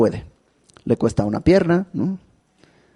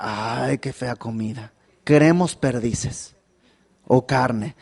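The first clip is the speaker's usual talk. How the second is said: much softer, slow whiny complaint; mock whining; 3 dB quieter, slower than usual. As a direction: sulk like a spoiled child. Mocking the grumbling people. (queja quejumbrosa burlona, muy suave)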